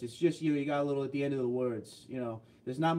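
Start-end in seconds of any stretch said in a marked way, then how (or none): none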